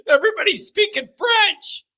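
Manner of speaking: high, laughing mock panic about French; lost tourist laughing at the French; laughing disbelief. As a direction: squeak it out through a laugh.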